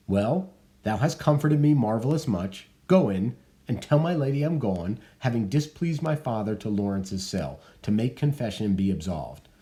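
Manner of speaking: a touch of bitter sarcasm; sarcastic Juliet. Acted. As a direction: say it sweetly, meaning the opposite.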